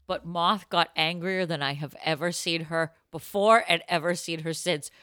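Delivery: ordinary talk, nothing marked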